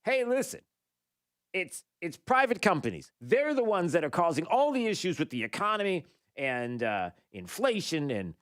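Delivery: half-hammed impression, dropping back toward own voice; mocking Biden. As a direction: lighter take on the whiny blame-shifting president. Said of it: "walks up to a microphone and says".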